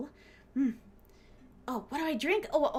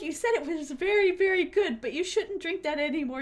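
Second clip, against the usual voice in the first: friends scolding; 6 semitones higher than usual. Retold or imitated. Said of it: "And they're like".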